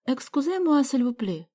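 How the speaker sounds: put-on a girl pleading politely in French; persuasive French plea. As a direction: coax them in French. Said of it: "убедительным голосом произнесла Галя".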